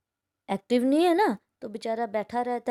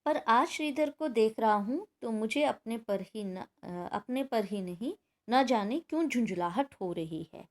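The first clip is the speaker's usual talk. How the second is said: story reading; 5 dB quieter than usual. A narrator's reading. Teacher reading the boy's thoughts on Shridhar, soft story reading. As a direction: softly read first-person story. Reads textbook story aloud.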